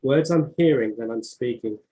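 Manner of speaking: measured recital of a short poem; poem reading. Acted. Author reading her poem Me to the host, measured. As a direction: read each line as its own small beat.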